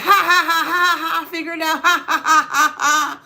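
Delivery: loud, taunting ha ha ha; loud gloating laughter at the ex; mocking laugh. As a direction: cackle in their face, loud. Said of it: "It's like".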